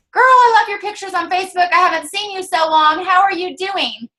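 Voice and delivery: friendly gushing greeting. Acted. Coach acts out messaging an old friend, friendly and gushing. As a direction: greet her like a long-lost friend.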